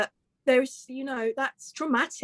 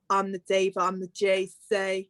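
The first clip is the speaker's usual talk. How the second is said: Gemma Collins impression; 3 semitones lower than usual. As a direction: lightly impersonate a self-declared diva. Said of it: "I love doing little impressions".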